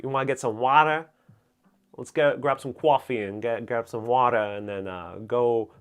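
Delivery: lightly attempted Brooklyn accent; stereotypical Brooklyn accent. Shown as a demonstration. New Yorker demonstrating the local accent for viewers, tentative Brooklyn accent. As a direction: have a halting go at old Flatbush talk. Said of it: "I can't do it too well".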